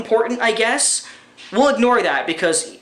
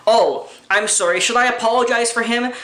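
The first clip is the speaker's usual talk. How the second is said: mock apology, a touch higher; sarcastic apology; 4 semitones higher than usual. Ranting vlogger mocks critics with a sarcastic apology. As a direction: feign regret with a sneer.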